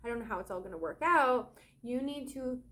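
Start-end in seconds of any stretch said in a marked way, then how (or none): 0.0-1.5 fast, rushed panicky babble; hammed-up money panic, rushed; mock freaking out. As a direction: rattle it off like someone spiralling in worry. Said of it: "if you're like".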